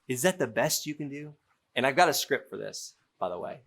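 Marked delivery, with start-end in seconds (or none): 0.1-1.3 deflated sigh, then the question. Shown as a demonstration. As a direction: let the air out, disappointed. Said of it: "I just sound deflated".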